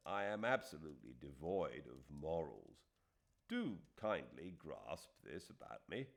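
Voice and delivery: a hint of an earnest English schoolmaster writing frankly; Fielding's letter. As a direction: read the letter as a wry, self-mocking friend.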